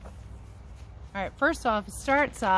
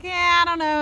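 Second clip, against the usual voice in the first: put-on unsure kid; 9 semitones higher, 7 dB louder than usual. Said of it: "some were like".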